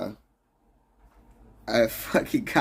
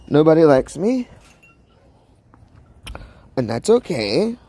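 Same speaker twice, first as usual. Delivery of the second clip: mock pity outburst; 4 semitones higher, 5 dB louder than usual. Mock self-pity rant.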